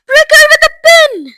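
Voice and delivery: high, loud frantic suggestion; urgent shout. A narrator's reading. One of the fathers at swelling Violet, frantic yell. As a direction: yell it over the panic.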